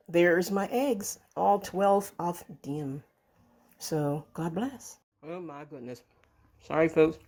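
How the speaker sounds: talking with a mouthful of egg; mouth full. Real, not acted. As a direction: say it while chewing, mouth full. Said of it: "Sorry for talking with my mouth full".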